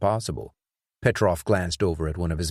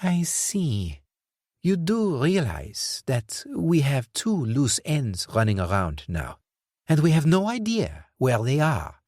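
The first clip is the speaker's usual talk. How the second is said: higher, slow, seething; controlled anger; irritated; 7 semitones higher than usual. Acted. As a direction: let irritation simmer under control. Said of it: "irritation had reached boiling point".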